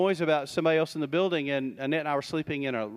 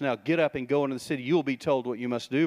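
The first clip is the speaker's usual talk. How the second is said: quick, curt marching orders; brisk order; faster than usual. Retold or imitated. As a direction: fire off the command fast. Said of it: "gives him marching orders".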